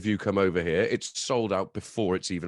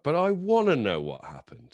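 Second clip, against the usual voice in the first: higher, whiny imitation of a listener; frustrated listener; 5 semitones higher, 4 dB louder than usual. Annoyed podcast listener left without the story, frustrated. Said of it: "anybody listening would be like".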